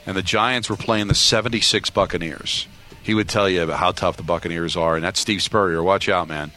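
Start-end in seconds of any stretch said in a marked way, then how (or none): 3.0-6.5 lower, coach-speak earnestness; lightly voiced earnest coach; Daboll impression. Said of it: "all coaches are like this".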